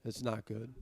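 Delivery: blocked nose, stuffy voice; congested. Real, not acted. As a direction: talk through a blocked nose. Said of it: "You could probably sound that I'm, I'm all congested".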